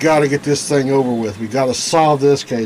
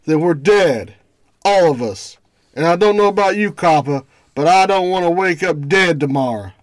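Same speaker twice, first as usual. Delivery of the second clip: gangster voice; 4 semitones higher than usual. Acted. Thug bargaining with the detective.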